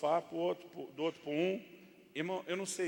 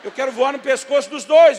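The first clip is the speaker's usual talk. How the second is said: very loud, high comic rage; exasperated outburst; 7 semitones higher, 18 dB louder than usual. Acted. Dad fed up with wife and son, loud mock fury. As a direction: explode as if about to throttle them. Dad's acted burst of exasperation.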